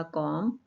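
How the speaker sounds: "कॉम" as a syllable on its own; single syllable. Shown as a demonstration. Teacher breaking comprehension into syllables, "कॉम" said separately. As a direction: sound out "कॉम", then stop. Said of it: "इसके अंदर पहला syllable होगा".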